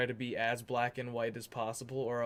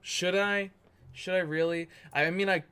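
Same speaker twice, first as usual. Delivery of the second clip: surprised delight; 6 semitones higher, 7 dB louder than usual. Real, not acted. Reacting to a viewer's colour request.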